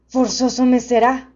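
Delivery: loud, booming gentle beast; friendly monster voice. A narrator's reading.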